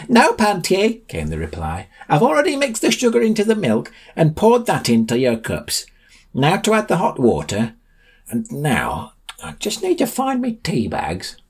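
put-on high doddering old man. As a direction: chatter away while making tea, fussy and old. Old man making tea.

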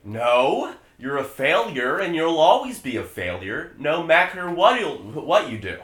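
loud, menacing, furious father; menacing rage. Acted. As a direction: roar it at him with contempt. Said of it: "spins around in a rather ghastly manner".

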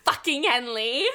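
high, loud, stretched shriek; giddy, loud fangirl reveal; excited shriek. Real, not acted. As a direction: shriek it out in delight.

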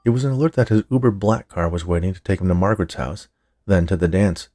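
ordinary delivery, nothing marked

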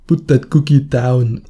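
put-on slow German-accented action hero line; Arnold Schwarzenegger. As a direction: deliver it slowly like a movie tough guy. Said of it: "I just sound like Arnold Schwarzenegger".

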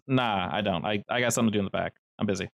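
dodging the question fast; a hint of a suspicious pizza guy; evasive worker. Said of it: "He narrows his eyes a bit and says".

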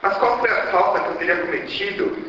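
plaintive cry, pitch lifted high; tragic heroine lament. Acted. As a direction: ask heaven in anguish. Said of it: "e se lamenta".

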